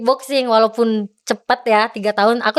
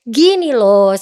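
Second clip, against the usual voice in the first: imitated impatient opener, a touch louder; heated official; 4 dB louder, much slower than usual. NOC official losing patience with the athlete, heated. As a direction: cut in with mild heat. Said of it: "udah nadanya udah makin panas mereka".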